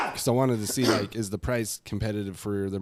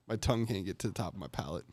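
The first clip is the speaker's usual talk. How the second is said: talking around a retainer; retainer in mouth; 2 semitones lower, faster than usual. Real, not acted. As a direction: speak with a retainer in. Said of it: "I got my retainer in".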